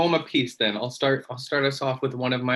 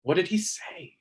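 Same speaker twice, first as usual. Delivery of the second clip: lightly voiced boys, higher-pitched question; eager boys asking; 5 semitones higher than usual. Boys pressing the rabbit for the story, lightly voiced higher plea. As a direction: lift the pitch for the listening boys' repeated question. Boys in poem ask priest's words.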